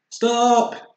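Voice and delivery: a high, loud yell; loud cry. Acted. Bear yells as his carpet shoots through the rainbow. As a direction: shout it as he hits the rainbow.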